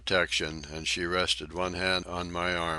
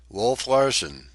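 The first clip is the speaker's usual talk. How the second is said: slow, louder, higher address by name; stern; 5 semitones higher, 8 dB louder, slower than usual. A narrator's reading. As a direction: lay the name down slowly and firmly. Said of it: "I said sternly".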